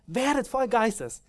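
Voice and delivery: high, slow emphatic repeat of the command; proclaiming command. Retold or imitated. Preacher repeating Paul's command, high and slow. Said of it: "und er sagt".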